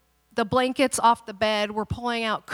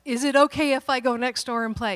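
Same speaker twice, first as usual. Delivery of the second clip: put-on checking child; 3 semitones higher, 5 dB louder than usual. Daughter over-checking permission.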